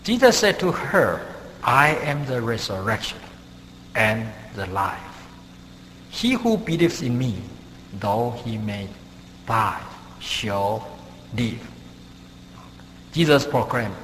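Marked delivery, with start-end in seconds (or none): 0.0-11.7 measured, solemn Bible reading; scripture reading. Acted. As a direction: read the verse out phrase by phrase, with pauses. Reads the verse aloud.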